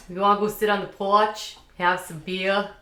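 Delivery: imitated Massachusetts accent, dropped Rs; thick Boston accent. Imitating a boy from Massachusetts, thick Boston accent. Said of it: "he had a thick accent".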